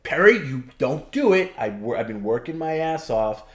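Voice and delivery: high, loud yell at him, then settling; mock yell. To Perry about to leave the stream, a loud mock yell. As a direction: call him out like you mean it. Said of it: "I'll yell at him".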